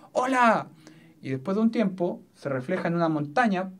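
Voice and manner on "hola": a higher call toward the mountain; shouted hello. Shown as a demonstration. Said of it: "si yo dijera".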